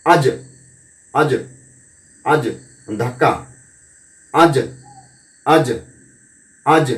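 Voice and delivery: আজ with the জ released in a short bounce; bounced qalqalah. Shown as a demonstration. Teacher drilling qalqalah on জ, bounced release. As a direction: pop the জ of আজ lightly. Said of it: "ধাক্কা দিতে গিয়ে".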